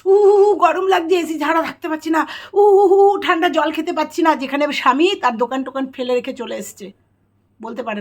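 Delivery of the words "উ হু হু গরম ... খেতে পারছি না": high, loud whiny complaining with mock sighs; hammed-up spoilt bride moaning about the heat; mocking whiny wife. Vlogger mocking a new bride's complaints to husband, whiny mock moaning. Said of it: "কেউ এসেই বলে না".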